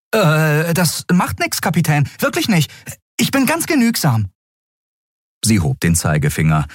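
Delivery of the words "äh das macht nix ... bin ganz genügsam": put-on very high, eager boy's voice. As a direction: hurry to reassure her. Miko eager.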